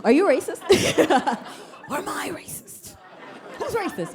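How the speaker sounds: high, laughing mock confusion; flustered laughing. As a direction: giggle through the awkward question. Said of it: "And I was like".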